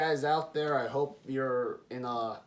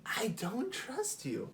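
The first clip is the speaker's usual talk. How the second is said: slow, quieter "I don't trust you"; slower softer repeat; 9 semitones higher, 5 dB quieter, slower than usual. Retold or imitated. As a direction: let the second one sink in slowly. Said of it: "And I was just like".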